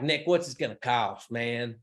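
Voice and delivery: imitating a client's Southern US accent; lightly put-on Southern drawl, stretching "cost" and "man". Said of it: "with an accent".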